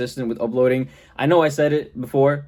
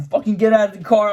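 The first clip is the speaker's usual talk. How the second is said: higher, louder barked cop order; mock cop yell; 9 semitones higher, 4 dB louder than usual. Imitating the cops ordering him out, a hammed-up yell.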